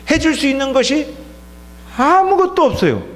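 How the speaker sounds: father telling the pastor he can do nothing, strained and high; tearful father quote. Retold or imitated. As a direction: pitch climbing high, a lightly acted breaking plea. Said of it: "그러면서 울더라고요".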